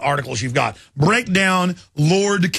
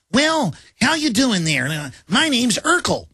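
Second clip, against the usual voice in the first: slow, higher mock white-guy voice; imitating a white person; 6 semitones higher than usual. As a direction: drawl it like a comedian faking a white man. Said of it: "an imitation of a white person".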